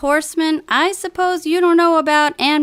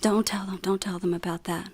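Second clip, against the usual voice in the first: urgent whisper; 7 semitones lower, 10 dB quieter than usual. Acted. Hushing bandmate about the secret.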